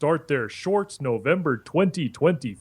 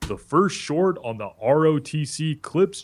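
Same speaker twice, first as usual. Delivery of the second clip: put-on West African pidgin English accent. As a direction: speak with a Nigerian accent. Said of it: "Stop doing the African accent".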